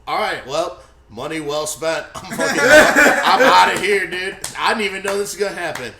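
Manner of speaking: loud, high exasperated rant; exasperated walkout. Retold or imitated. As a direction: storm out of the theater in disbelief. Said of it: "You're like".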